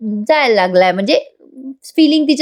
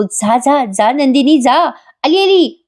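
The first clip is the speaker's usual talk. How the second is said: mock calling out; 3 semitones higher, slower than usual. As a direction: pitch leaps on the final call, volume barely raised. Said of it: "असं तोच ओरडतो बरं का".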